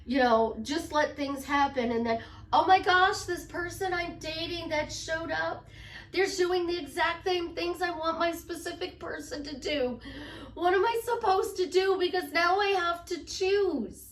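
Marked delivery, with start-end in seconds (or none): 2.5-14.1 imitating panicked client. Coach voicing a dithering client, high mock panic. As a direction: play the flustered client torn between two lovers, a bit hammed-up.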